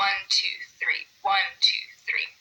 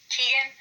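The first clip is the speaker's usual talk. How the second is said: Keegan, first syllable a little stronger; stress on first syllable; 5 semitones higher than usual. Shown as a demonstration. Teacher sounding out students' names, Keegan stressed on its first syllable. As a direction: lean on the KEE of Keegan. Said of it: "first syllable just a little bit louder".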